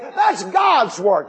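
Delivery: slow, high, ringing proclamation; preaching shout. Real, not acted. Preacher to congregation, slow ringing shout. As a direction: drive each word out slowly like a preacher.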